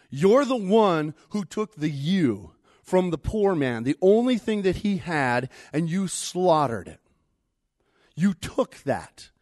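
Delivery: forceful accusation. Acted. Prophet accuses David.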